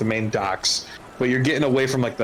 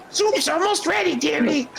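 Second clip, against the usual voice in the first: put-on very high old-lady kobold voice; old kobold granny. Old kobold peeling potatoes to visitors, very high granny voice. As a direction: call out high as an elderly kobold woman. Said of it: "this really old, uh, feminine looking".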